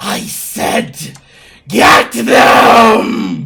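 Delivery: very loud, hissing, raspy voice. Narrating what she says next, in a hissy, raspy voice. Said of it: "in that same hissy, raspy voice".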